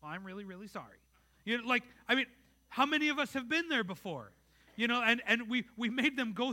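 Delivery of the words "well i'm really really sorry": softer, an overdone "really, really" that still isn't meant; a child hamming up a second apology; forced sincerity. Retold or imitated. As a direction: pile on the "really" to fake meaning it. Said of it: "like you mean it".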